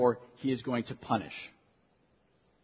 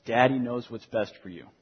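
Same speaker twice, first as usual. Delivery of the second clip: gentle fatherly firmness. Retold or imitated. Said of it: "I'll say".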